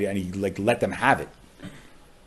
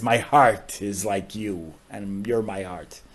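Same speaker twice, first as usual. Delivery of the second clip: slow, tender words of love; slower than usual. Shown as a demonstration. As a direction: say it slowly like a loving parent. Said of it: "Teure is".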